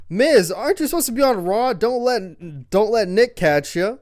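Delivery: R-Truth. Retold or imitated. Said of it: "he says".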